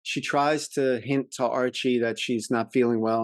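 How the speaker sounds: normal talking voice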